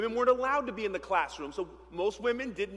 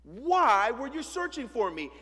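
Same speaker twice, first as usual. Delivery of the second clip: put-on cheeky boy Jesus; 5 semitones higher, 5 dB louder than usual. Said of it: "Child, please".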